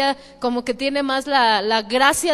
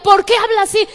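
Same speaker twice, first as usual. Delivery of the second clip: retold suspicion; 7 semitones higher than usual. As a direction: imitate the listener's suspicious surprise. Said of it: "me decía".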